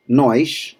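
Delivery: nós ending in sh, NOSH; nós with a Carioca sh; Rio-style nós; Rio accent. Shown as a demonstration. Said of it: "If you wanna sound like someone from Rio".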